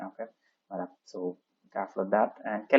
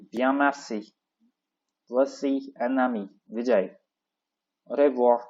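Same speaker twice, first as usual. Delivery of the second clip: raised dialogue-reading voice, lines called out; 3 semitones higher than usual. Shown as a demonstration. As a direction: perform both parts of the dialogue for the class. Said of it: "so we'll start again".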